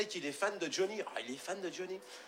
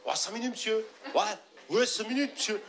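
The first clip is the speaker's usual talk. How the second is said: high, louder pleading; pleading kid; 8 semitones higher, 4 dB louder than usual. Acted. Young fan begging the bodyguard, high and pleading. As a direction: beg like an eager young fan.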